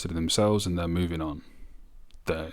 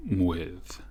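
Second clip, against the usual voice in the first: whisper; slower than usual. Retold or imitated. Quoting lyric intimately.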